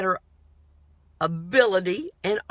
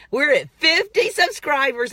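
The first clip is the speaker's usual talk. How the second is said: excited announcement; 7 semitones higher, 7 dB louder than usual. Real, not acted. Excited channel update to viewers.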